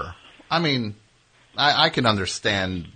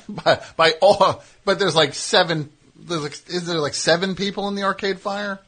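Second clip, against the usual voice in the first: laughing disbelief; 10 semitones higher than usual. Real, not acted. Incredulous at nine books.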